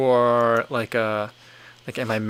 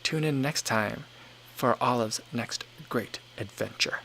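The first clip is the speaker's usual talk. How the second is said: slow, softer attempt at an Australian accent; imitated Australian accent; 7 dB quieter than usual. Streamer recalls a kids' cartoon sign-off, imitated Australian accent. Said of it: "he would say it in a very thick accent".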